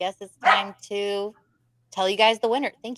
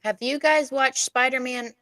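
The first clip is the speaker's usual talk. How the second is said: attempted British accent, pitched higher; amateur British accent, higher than usual; 5 semitones higher than usual. Shown as a demonstration. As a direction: try your best British accent. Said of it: "British accent? That was the best I got".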